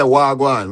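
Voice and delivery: Wagwan repeated clearly as "wah-gwahn"; Patois pronunciation. Shown as a demonstration. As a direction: show Wagwan again for a learner, ending on N. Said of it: "so in Patois".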